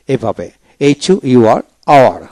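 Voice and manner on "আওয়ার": "আওয়ার" starting on the vowel; silent H. Shown as a demonstration. Teacher showing learners a silent letter, "আওয়ার" without H. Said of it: "এইচ উচ্চারণ হবে না".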